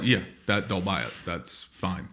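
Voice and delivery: low, soft, careless shrug; hushed, offhand mock indifference; dismissive aside. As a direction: play a company brushing it off quietly. Voicing careless makers shrugging it off.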